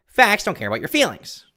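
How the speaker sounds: nasal, fast pundit voice; high pitched, loud and nasal; Ben Shapiro voice. Shown as a demonstration. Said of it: "Shapiro voice nasally like".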